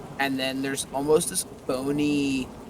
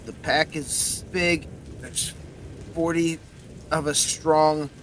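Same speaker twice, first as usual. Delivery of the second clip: werewolf skull; 3 semitones higher, 4 dB louder than usual. Acted. Skull tells the pack size.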